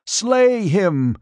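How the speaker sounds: high, loud shrill order; queen shrieking at her guards to kill; shrill command. A narrator's reading. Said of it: "Zaina shrilled".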